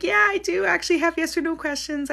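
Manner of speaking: high-pitched eager mock client; imitating excited clients. Client telling the reader they brought questions, imitated high excitement. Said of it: "people get all excited".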